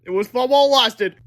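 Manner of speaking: put-on high, loud kid voice; mock-cheerful farewell line; Harold's voice. A narrator's reading. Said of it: "said Harold".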